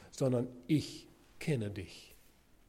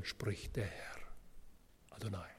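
much softer, lower whisper; 6 semitones lower, 14 dB quieter than usual. Real, not acted. Preacher ending the Ezekiel reading in awe. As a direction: let the ending fade into a reverent whisper.

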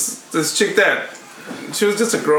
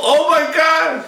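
high, drawn-out moan of pleasure; slow, pitched-up fake rapture; mock ecstasy; 10 semitones higher, much slower than usual. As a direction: stretch it out in hammed-up bliss. Acting out pleasure during hickey.

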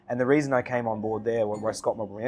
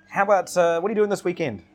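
lightly imitated English accent, pitched higher; retold casual invitation in a higher, mock English accent; Gordon's English accent; 7 semitones higher, 6 dB louder than usual. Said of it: "in his English accent".

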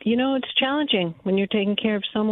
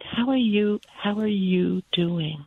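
gentle check-in; slower than usual. Shown as a demonstration. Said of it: "It's just".

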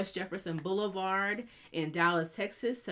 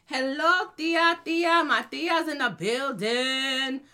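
excited hello; 5 semitones higher, 5 dB louder, slower than usual. Real, not acted. Greeting her aunt in the chat.

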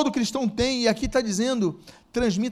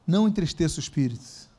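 usual speaking voice

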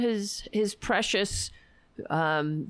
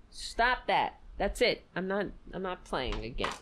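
scolding like a mom; sharp mom scolding the pet; shrill nagging mom; 5 dB quieter than usual. Real, not acted. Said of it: "I sounded like my mother just then".

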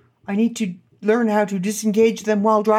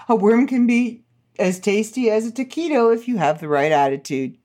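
laughing; 3 semitones higher than usual. Real, not acted. Laughing while reading headline.

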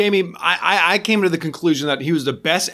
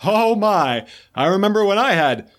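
lightly hammed-up podcast impression; Mike Dooley; 3 semitones higher than usual. Filling in for a dropped co-host, Mike Dooley impression. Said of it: "I was doing my Mike Dooley impressions".

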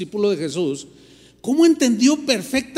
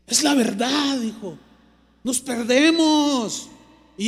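higher, emphatic quoted confession; retold earnest admission; 5 semitones higher than usual. Repentant colleague fervently admitting the truth.

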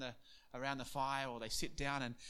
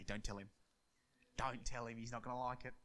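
hushed; 2 semitones lower, 5 dB quieter than usual. Acted. Disciples hush each other.

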